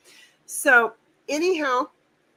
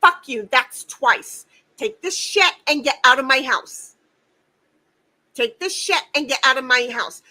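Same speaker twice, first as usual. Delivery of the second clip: retold blow-up; 4 dB louder than usual. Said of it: "I'm like".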